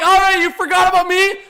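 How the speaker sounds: mock taunt in his hype shout; voicing Willie. Streamer voicing Nylander's taunt to doubters, high loud. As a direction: tease as the player. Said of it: "Willie's like".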